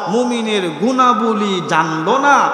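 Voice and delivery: high, stretched-out emphatic cry; impassioned preaching. Real, not acted. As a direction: raise the pitch and draw out the key word. Preacher builds to emphatic climax. (উঁচু গলায় টেনে আবেগী ওয়াজ)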